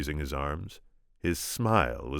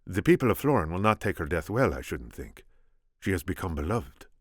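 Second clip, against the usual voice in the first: put-on Spanish accent; 3 semitones higher than usual. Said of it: "my attempt at Inigo".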